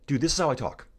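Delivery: high, amped-up bro talk; YouTube voice. Shown as a demonstration. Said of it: "my YouTube voice comes through sometimes".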